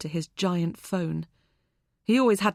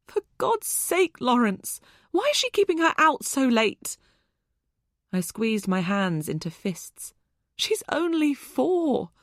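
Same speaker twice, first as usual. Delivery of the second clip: exasperated outrage; 6 semitones higher than usual. A narrator's reading. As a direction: stretch out the disbelief. Outraged about late return.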